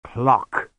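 thickly spoken. Acted. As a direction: say it thick and dazed. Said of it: "he said thickly".

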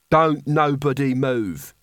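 a smug heavy enjoying the threat; menacing guard voice. Acted. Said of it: "he suggested".

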